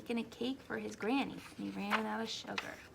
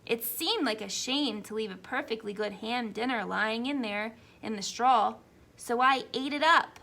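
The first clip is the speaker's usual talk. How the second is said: lightly voiced chatty wolf, a bit louder; a hint of a sly wolf pleading his case; wolf narrator; 7 dB louder than usual. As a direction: play a self-justifying wolf telling his side.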